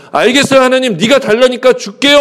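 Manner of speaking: lightly mocking imitation of obedience; mock compliance. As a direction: agree as if put upon. Abraham's hasty compliance acted out.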